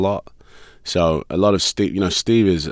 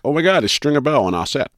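starstruck; 9 semitones higher, faster than usual. Retold or imitated. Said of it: "every day it's like".

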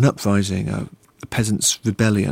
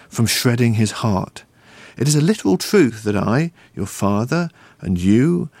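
raised, emphatic uncle's counsel; uncle's solemn speech. Acted. Uncle handing nephew the family psalm book, solemn speech. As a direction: lay down family history like a lesson. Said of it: "reconstruct his uncle's speech from memory".

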